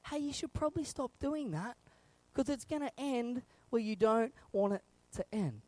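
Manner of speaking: high, gently cautioning voice; mild warning. Retold or imitated. Parent warning kids at the playground, mild warning. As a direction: warn them lightly, trailing down. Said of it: "I told them thirty seconds beforehand".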